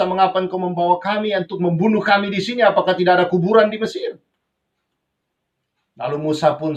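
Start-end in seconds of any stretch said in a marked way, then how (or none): 0.0-4.2 rushed, lightly acted complaint to a leader; retold outcry, quick and insistent; mild retold shouting. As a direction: imitate a crowd's frantic protest, only mildly raised. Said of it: "Mereka mulai berteriak-teriak kepada Musa".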